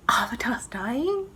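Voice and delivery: whispered disbelief; shocked whisper at the ending; stunned whisper. Real, not acted. Outraged disbelief at spoiler.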